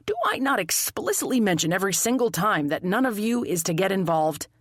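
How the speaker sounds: lightly voiced detective's scolding; a mild, formal telling-off; stern detective. Detective scolds amateur sleuth.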